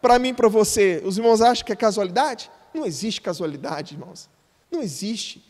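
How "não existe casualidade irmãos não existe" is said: low emphatic hush. Real, not acted. Pastor drops voice emphatically.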